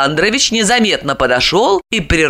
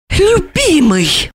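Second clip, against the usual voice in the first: much higher, very slow venomous hissed endearment; 11 semitones higher, much slower than usual. A narrator's reading. Olga venting her anger on her husband, hissed. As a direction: spit the sweet word like poison. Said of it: "прошипела она".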